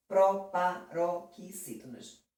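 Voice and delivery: "proparoxítonas" drawn out slowly, syllable by syllable; broken into syllables. Shown as a demonstration. Teacher giving students the key term, "proparoxítonas" said slowly in syllables.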